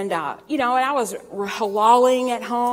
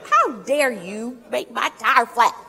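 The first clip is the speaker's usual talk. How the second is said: mock indignation; slower than usual. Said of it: "And so I'm mad now".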